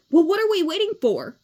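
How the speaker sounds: high, loud and eager; rally the bandmates, can't wait to go; eager rallying call. A narrator's reading. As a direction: Leona urging the band to hurry off. Leona urging in story.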